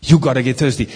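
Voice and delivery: firm loud "You gotta get thirsty". Shown as a demonstration. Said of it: "repeated line".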